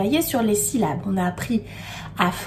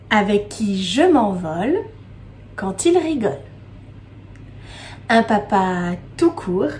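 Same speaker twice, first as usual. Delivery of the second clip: poem recitation. Acted. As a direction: recite line by line with lingering pauses.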